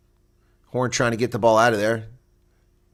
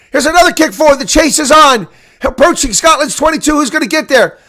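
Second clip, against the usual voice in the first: much higher and louder, riding the action; excited play-by-play; 8 semitones higher, 7 dB louder than usual. Real, not acted. Commentator calling a wild open-field run to viewers, excited shout. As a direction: call the frantic chase at full pitch. Frantic back-and-forth rugby passage.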